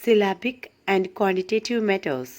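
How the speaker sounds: slow, deliberate textbook read-out; reading notes aloud. Acted. Teacher reads poetry notes to students, slow measured read-aloud. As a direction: read it out phrase by phrase, with careful pauses.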